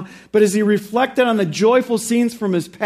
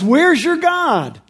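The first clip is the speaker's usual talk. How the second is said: higher, slow taunting cry of "Where's your God"; mock shout; 5 semitones higher, slower than usual. Mockers shouting at believers, slow higher taunt. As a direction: fling the question out like a jeer. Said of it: "They shout at us".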